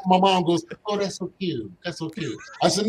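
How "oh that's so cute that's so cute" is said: softening, lightly voiced cooing mother; cooing mom. Mom reacting to son's nickname, tender cooing. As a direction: coo it gently, trailing softer.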